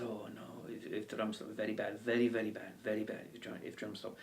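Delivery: put-on hushed tour guide in a muddled accent; mock Welsh-Indian lilt, softly ominous; Welsh Hawaiian Indian accent. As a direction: warn softly in a badly faked mixed accent. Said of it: "the Welsh Hawaiian Indian".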